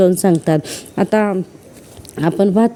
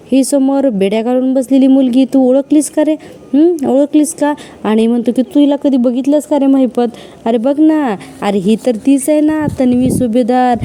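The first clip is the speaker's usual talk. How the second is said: mocking taunt; 4 semitones higher than usual. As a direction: needle her, gloating. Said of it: "Nagraj मुद्दामून आता या प्रियाला खिजवत असतो". (कैदी मुलीला टोमणे मारत चेष्टेचा स्वर)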